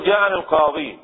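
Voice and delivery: "القاضي" ending in an ee vowel. Shown as a demonstration. Teacher explaining that the ya returns, pronounced with ya. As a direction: sound the final ya of "القاضي". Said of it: "القاضي بالياء ترسمه".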